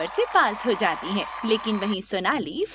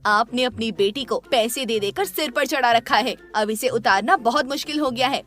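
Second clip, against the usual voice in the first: louder, heated scolding of the husband; the wife blames her husband, voice raised; furious wife, raised voice; angry scolding; 3 dB louder than usual. Acted. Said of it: "गुस्से में उसकी माँ".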